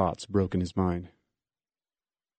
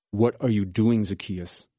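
cynical. Acted. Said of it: "Cynicism hissed through Judah's teeth".

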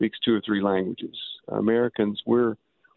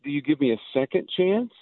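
higher-pitched, wondering address to Jesus; amazed gratitude; 5 semitones higher than usual. Acted. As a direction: marvel at an undeserved gift. Acted address to Jesus at the cross.

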